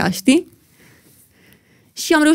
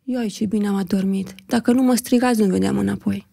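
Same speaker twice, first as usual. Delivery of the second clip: sleepy grandma; 2 semitones lower, 5 dB quieter than usual. Retold or imitated.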